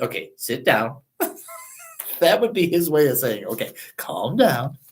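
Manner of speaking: gentle calm down. Retold or imitated. Jesus soothing an uptight listener, soft and low. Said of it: "he said".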